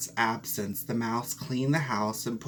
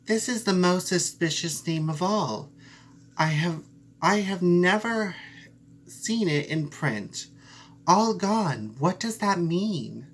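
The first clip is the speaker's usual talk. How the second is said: higher, shocked mouse voice; surprised mouse; 5 semitones higher than usual. Acted. Mouse hears the odd name, shocked and higher. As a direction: gasp at the name like a small mouse.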